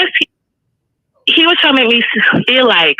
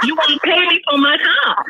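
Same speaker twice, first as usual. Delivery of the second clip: laughing; 4 semitones higher than usual. Real, not acted. Caller repeating her rule to hosts, laughing. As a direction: crack up while repeating it.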